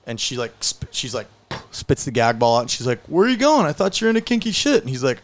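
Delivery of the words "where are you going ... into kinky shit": high, loud acted protest; indignant calling out. Woman yells after the man bolting for the door, indignant. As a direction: call after someone who is bolting.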